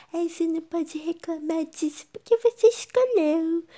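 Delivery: high, loud whiny mocking voice; mock a nagging know-it-all; annoying person voice. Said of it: "gente chata no mundo que fala".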